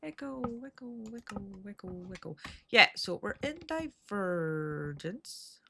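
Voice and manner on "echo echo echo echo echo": echoing voice; canyon echo. Shown as a demonstration. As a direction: call out like into a canyon. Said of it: "Sorry about the echo".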